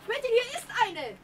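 high call across the field. Acted. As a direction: call out the find from a distance. Calling out a find across field.

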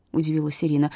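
usual speaking voice

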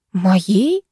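ordinary delivery

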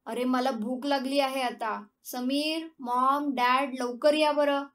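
put-on hungry boy hollering for mom and dad; calling out to family. Son calling family to eat.

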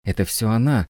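understated shrieked accusation; screeching. A narrator's reading. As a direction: accuse someone with a mild screech. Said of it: "визжала женщина".

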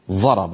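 ضرب with the ض said as a heavy ظ, tongue between the teeth; ضاد as ظاء. Shown as a demonstration. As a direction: say ضرب with a Bedouin ظ sound. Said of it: "هكذا بالضاء". (نطق ضرب بالظاء بدل الضاد)

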